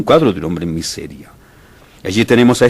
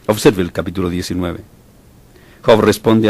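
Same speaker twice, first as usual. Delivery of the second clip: usual speaking voice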